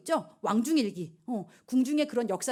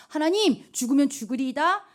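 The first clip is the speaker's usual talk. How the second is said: louder, pressing prayer; fervent plea; 3 semitones higher, 5 dB louder than usual. Acted. Esther praying before going to the king, louder and fervent. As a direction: cry out to God with resolve.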